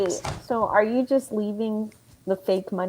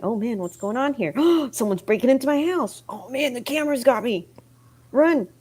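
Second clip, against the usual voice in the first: acted homeowner; 3 semitones higher than usual. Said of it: "some great acting, reenactment".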